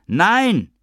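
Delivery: high, loud final wail. Acted. Avi wails his refusal at being left behind, high and loud.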